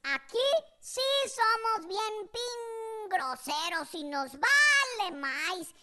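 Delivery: drawn-out, half-censored crude boasting; mock defiant respondents. Foul-mouthed respondents answering survey, mock defiance. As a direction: stretch each insult with hammed-up pride.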